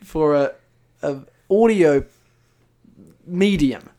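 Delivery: loud, high, incredulous question; mock exasperation. Real, not acted. Host calling out a visual gag on audio, exasperated. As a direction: demand it with halting, pointed disbelief.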